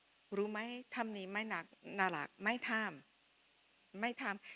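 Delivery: husband's gentle scolding. Retold or imitated. Husband gently scolding her habit.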